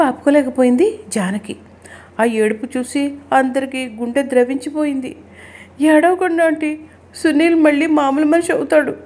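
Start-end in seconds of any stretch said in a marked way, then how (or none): 5.8-9.0 high-pitched, earnest reassurance; consoling. A narrator's reading. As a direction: plead with her gently but urgently, voice raised in pitch. Friends console the crying mother. (ఓదార్పుగా, ఎత్తైన గొంతుతో)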